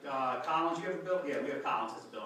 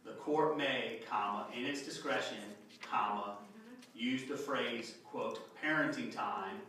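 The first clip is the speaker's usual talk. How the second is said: dictating; 3 semitones lower than usual. Shown as a demonstration. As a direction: spell out every comma and quote.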